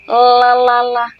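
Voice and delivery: "la la la" with a drawn-out, clearly sounded L; sing-song drill on "la la la", held on one steady pitch; L sound practice. Shown as a demonstration. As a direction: demonstrate the L in "la la la", tongue-led and sustained. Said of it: "to better pronounce the L sound".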